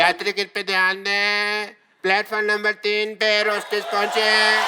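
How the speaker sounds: station announcer voice; over the intercom. Acted.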